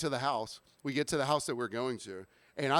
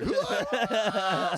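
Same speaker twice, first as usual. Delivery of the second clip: gagging yelp; 5 semitones higher, 4 dB louder than usual. Retold or imitated. Reacting to the smell.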